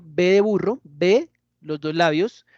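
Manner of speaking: "B" with both lips pressed, slowly; bilabial B. Shown as a demonstration. Teacher contrasting "B" with "V" for students. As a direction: pop both lips together on "B". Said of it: "O digo B".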